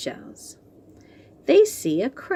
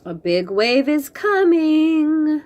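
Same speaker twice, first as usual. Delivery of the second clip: excited warning; 7 semitones higher, 5 dB louder than usual. Acted. Bob warns of a wave.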